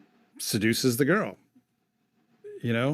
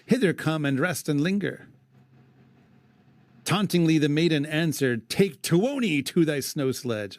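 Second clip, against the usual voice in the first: measured verse reading; poem recitation; 4 semitones higher than usual. Acted. Host reading the epic to his cohost, recited verse. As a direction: read it aloud like old poetry.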